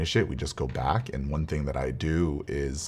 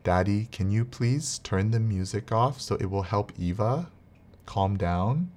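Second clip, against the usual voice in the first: put-on a lightly higher, sweet little-girl voice, asking politely; imitating young daughter; 5 semitones higher than usual. Daughter asking Daddy to turn off the music, lightly child-voiced.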